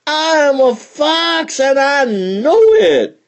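high, indignant fox shout. Acted. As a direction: yell it, stung and proud. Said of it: "he shouted".

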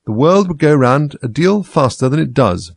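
slow, hoarse growl. Acted. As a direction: growl it out slowly. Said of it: "in a hoarse growl".

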